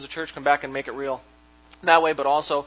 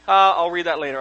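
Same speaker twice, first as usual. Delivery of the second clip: dismissive brush-off; 2 semitones higher, 6 dB louder than usual. Retold or imitated. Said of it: "you're like".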